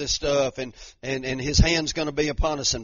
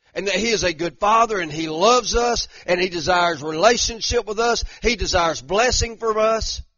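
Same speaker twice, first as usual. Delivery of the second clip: raised, driving preacher's delivery; preaching; 5 semitones higher, 6 dB louder than usual. Real, not acted. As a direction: preach it with conviction to the congregation. Preaches with force, chat elsewhere.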